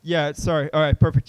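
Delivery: usual speaking voice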